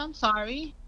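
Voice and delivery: high-pitched retold sympathy; showing empathy. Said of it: "I'm showing some empathy towards him".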